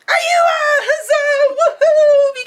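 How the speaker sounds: high, loud joyful whoop; big excited cheer. Real, not acted. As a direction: let it rip like a victory yell. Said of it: "let out a big".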